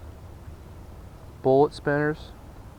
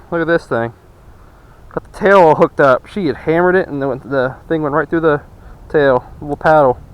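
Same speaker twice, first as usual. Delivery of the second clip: excited; 3 semitones higher, 6 dB louder than usual. Real, not acted. A second catch, minutes later.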